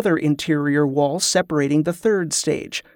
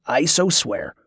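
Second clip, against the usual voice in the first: a lightly voiced grudging "I so swear"; the cook swearing the oath against his will; grumbling; 2 semitones lower, slower than usual. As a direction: mutter the oath as if under protest. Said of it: "the cook grumbled".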